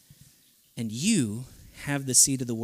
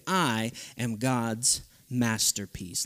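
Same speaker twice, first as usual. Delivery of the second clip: slow declaration; 4 semitones lower, 4 dB quieter, much slower than usual. Shown as a demonstration. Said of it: "I want you to say".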